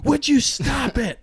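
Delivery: high, slow mock rebuke; mock scolding. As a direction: snap it up high like a scolded brother. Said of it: "look at me and just be like".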